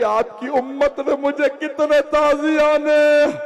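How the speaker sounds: high, loud crying cry; wailing lament. Acted. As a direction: let the voice break upward in grief. Climax of Zainab's lament. (ऊँची आवाज़ में रोता विलाप)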